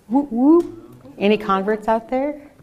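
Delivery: high excited whoop; cheering. Real, not acted. Cheering for converts.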